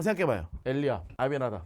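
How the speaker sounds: usual speaking voice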